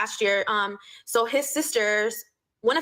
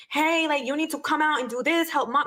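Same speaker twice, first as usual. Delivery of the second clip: pushy, demanding, a bit higher; demanding sister-in-law; 5 semitones higher than usual. Retold or imitated. Sister-in-law barging in, demanding he help mom, bossy. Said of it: "very demanding".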